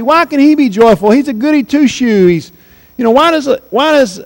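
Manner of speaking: mock the envious complaint lightly; jealous wicked man. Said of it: "He says".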